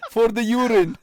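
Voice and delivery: lightly hammed-up master voice, laughing; mock slave owner. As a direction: scoff at the thought of no slaves.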